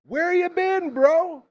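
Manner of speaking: high, loud and thrilled; excited greeting. Real, not acted. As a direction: call out to a long lost friend. Greets returning guest loudly.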